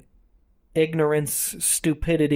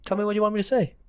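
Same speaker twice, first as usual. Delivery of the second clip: higher, lightly hammed-up Asian accent; mock Asian accent; 7 semitones higher, much faster than usual. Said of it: "I want you to".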